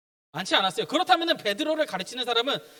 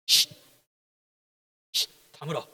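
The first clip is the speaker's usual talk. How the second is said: mock hushing; 7 semitones lower, 5 dB quieter than usual. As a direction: pretend shushing, sharp shh then low and soft. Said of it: "아니면 혼내셨을까?". (혼내듯 쉿 하며 낮고 작게)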